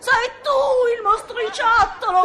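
hammed-up sobbing accusation. Countess blaming the boy for Filippo, in hammed-up sobs. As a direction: wail the blame at the boy.

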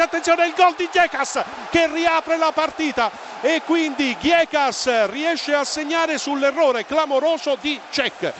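rising, excited play-by-play goal call; breathless italian goal commentary. Acted. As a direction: call the goals as they happen, breathless. Live goal commentary, Greece concede. (telecronaca concitata del gol)

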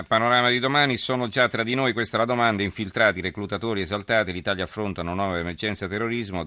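punchy headline announcer read; news headline read. Acted. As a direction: pitch it like a news promo. Reads the magazine headline promo.

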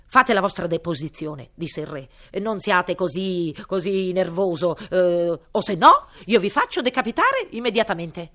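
loud pompous royal threat; threatening king. Acted. (re minaccioso)

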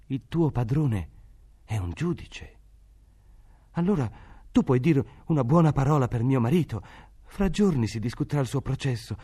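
a mother afraid for her jailed husband pleads; pleading poor mother. A narrator's reading.

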